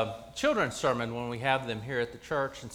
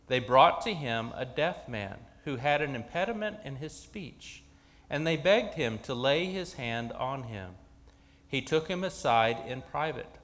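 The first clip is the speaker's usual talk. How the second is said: scripture reading. Acted. Reads the gospel lesson aloud.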